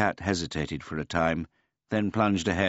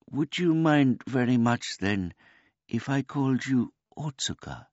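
put-on high, polite old man voice; a gentle, childlike old man; simple old man; 9 semitones higher, 4 dB louder than usual. A narrator's reading.

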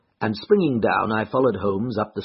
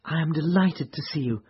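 warm welcome; 7 semitones higher than usual. A narrator's reading. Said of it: "pressing my hand warmly".

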